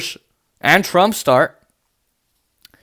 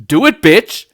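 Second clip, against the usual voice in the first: smug; 4 dB louder, slower than usual. Retold or imitated. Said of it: "like, all smug".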